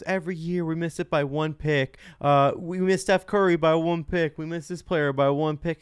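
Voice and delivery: dramatic mock complaint; Stephen A imitation. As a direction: ham up a pundit's lament. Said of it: "he goes".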